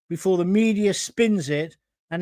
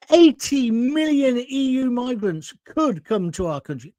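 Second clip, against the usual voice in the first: could leaned on, slow and weighty; stress on could; 4 semitones higher than usual. Shown as a demonstration. Warning viewers, stressing could in slow words. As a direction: press hard on the word could. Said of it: "Could, I'm stressing that".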